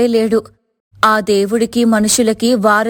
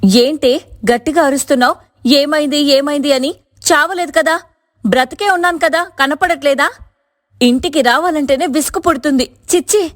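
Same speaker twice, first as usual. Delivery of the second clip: high-pitched, exasperated scolding; irritated outburst; 12 semitones higher than usual. A narrator's reading. Fed-up Sirisha scolding her questioning sister-in-law, irritated outburst. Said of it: "అని పెద్దగా అరిచేసి".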